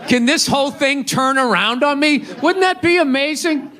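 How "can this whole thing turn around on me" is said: higher, lightly panicked rich man; mock worried CEO. A CEO realizing it could turn on him, mild mock panic. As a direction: play the CEO suddenly scared.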